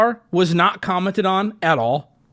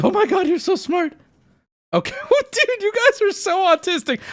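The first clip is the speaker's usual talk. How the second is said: mock praise to chat; 10 semitones higher than usual. Real, not acted. Teasing chat mockingly.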